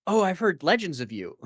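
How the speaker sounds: awed villager voice. Retold or imitated. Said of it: "they should be like".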